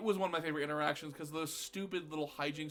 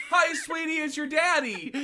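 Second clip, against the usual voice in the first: embarrassing dad; 10 semitones higher, 7 dB louder than usual. Acted. Acting embarrassing dad at dance.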